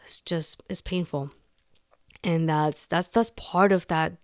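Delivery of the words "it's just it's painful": pained whisper. Real, not acted. Speaker moved after tense scene.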